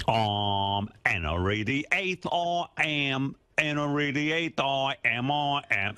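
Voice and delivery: slow, grand hammy British king; British accent. Pretend. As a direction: proclaim it like an old English king. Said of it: "It's fun to play British".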